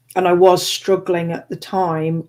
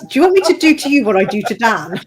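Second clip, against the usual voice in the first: laughing; 8 semitones higher, 6 dB louder, faster than usual. Real, not acted. Teasing friend, laughing mid-joke.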